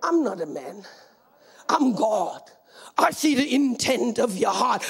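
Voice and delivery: lightly deepened divine voice; voice of God. Retold or imitated. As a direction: speak low and measured as God himself. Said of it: "The Lord says to me".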